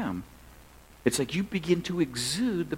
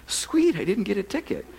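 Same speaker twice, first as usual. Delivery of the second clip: gleeful relief; 5 semitones higher than usual. Retold or imitated. Relieved aside after cop walks away.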